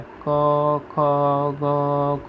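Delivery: ક, ખ, ગ, ઘ each sounded alone from the throat; throat-sound demo. Shown as a demonstration. Teacher showing students the throat letters, ક, ખ, ગ, ઘ sounded separately. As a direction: recite ક, ખ, ગ, ઘ one by one, held open. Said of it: "એટલે એને કંઠ્ય કહેવામાં આવે".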